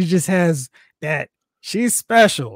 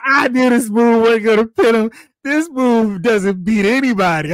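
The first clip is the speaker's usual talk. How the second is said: mock Roman trash talk; 5 semitones higher, 3 dB louder than usual. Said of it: "It was like".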